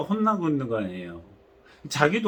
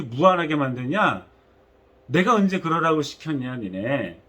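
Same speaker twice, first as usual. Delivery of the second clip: angry rebuke. Retold or imitated. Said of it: "굉장히 화가 나셨습니다".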